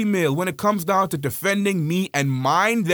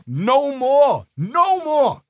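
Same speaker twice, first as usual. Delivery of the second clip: higher, louder "no more"; a fierce, rising declaration; loud emphatic; 7 semitones higher, 4 dB louder, much slower than usual. Real, not acted. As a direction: hammer it twice, raised and forceful. Emphatic outburst about community.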